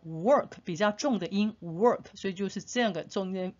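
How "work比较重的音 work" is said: "work" with a weighted, r-coloured "er" vowel; stressed r-vowel. Shown as a demonstration. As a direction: lean on the curled-tongue vowel in "work". ("work"重读卷舌元音)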